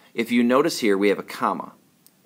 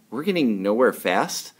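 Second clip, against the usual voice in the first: "getting" stressed, rising question tune; questioning read, rising at the end. Shown as a demonstration. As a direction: ask it, lifting on "getting". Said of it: "which sounds more like a question".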